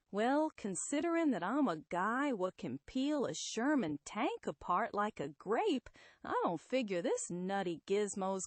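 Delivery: lightly voiced tough guy, folksy and confident; Ben. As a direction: brag casually like a brawny lug.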